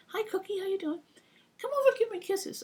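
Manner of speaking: high, sweet coaxing voice; baby talk to a bird. Retold or imitated. Caregiver sweet-talking the parrot, high baby talk. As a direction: coax the parrot in a high sing-song.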